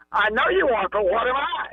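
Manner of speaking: high singsong schoolyard taunt; childish taunt. Retold or imitated. Mimicking two men's playground taunt.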